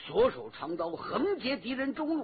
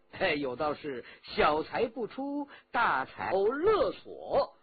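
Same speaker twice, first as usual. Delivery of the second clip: drawn-out, mock-admiring visitor's patter; needling flatterer. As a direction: lay the flattery on slowly, with a threat under it. Villain flatters and needles the old hero.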